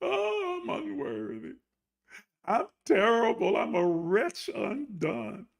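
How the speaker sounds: soft, hammed-up wretchedness; mock self-pity. Preacher playing God's unworthy child, mock self-pity. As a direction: wallow softly in pretend unworthiness.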